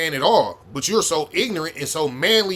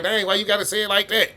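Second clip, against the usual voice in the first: mock offended girlfriend; 6 semitones higher than usual. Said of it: "And she like".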